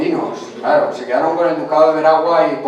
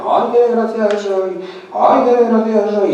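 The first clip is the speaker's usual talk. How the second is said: mock sobbing queen; 6 semitones higher than usual. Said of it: "sollozando en primera fila".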